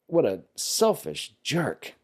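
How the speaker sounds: rude retort. Retold or imitated. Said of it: "a rude way to say".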